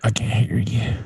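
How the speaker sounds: playful Texas twang; Texas accent. Pretend. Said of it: "Let me try my Texas accent".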